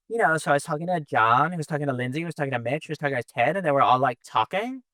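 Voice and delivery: uptalk with rising question endings; every phrase lifts up like a question; Valley Girl voice. Retold or imitated. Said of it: "you kinda have to do it in a Valley Girl voice".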